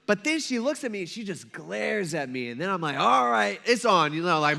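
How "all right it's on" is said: louder, fired-up retold dare; mock challenge. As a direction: take up the challenge, playfully. Retold acceptance of driving challenge.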